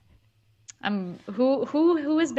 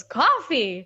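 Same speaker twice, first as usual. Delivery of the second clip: mother's echo; 4 semitones higher, 6 dB louder than usual. Retold or imitated. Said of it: "And she goes".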